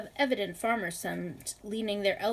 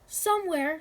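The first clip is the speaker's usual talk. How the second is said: helpless shout; 7 semitones higher, 3 dB louder than usual. A narrator's reading. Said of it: "she shouted, a little helplessly".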